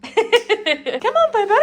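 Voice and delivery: high sing-song coaxing to the dog, through a laugh. Real, not acted.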